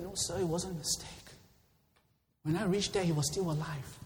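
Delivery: softly spoken rebuttal; quiet reply. Acted. Soldier answers his angry captain after reaching his dying buddy, quiet reply.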